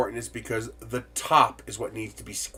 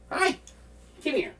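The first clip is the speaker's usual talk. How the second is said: excited greeting. Real, not acted. Greeting the cat.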